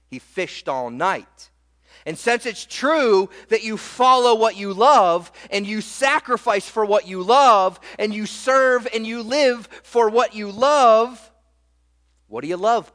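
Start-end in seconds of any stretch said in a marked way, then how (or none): 2.0-11.3 louder, building sermon passion; rising preaching. Real, not acted. Pastor pressing the point to the church, preaching louder. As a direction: drive it home to the congregation.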